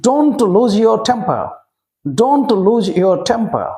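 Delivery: very slow, every word drawn out for learners; drawn-out classroom model; slow teaching repeat. Shown as a demonstration. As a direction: spell it out slowly so children can follow. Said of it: "repeats slowly for learners".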